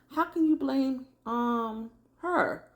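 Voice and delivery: high-pitched mock outrage; coming in strong. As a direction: imitate her challenging him, pitch way up. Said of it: "come in so strong".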